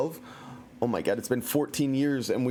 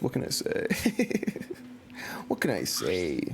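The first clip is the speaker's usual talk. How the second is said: breathy mumbled aside; whispered aside; 6 semitones lower than usual. Real, not acted. Streamer whispering to chat after praising himself. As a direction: whisper it to yourself, shrugging.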